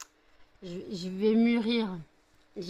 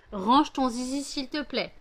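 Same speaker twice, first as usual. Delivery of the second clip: louder, higher scolding command; firmer repeated order; 4 semitones higher, 4 dB louder than usual. Real, not acted. Owner telling her dog off a second time, louder and firmer. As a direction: insist this time, raise your voice.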